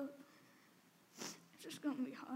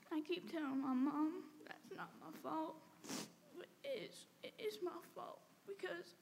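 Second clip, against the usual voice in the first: crying; 2 semitones higher than usual. Real, not acted. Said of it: "It's embarrassing crying in front of people".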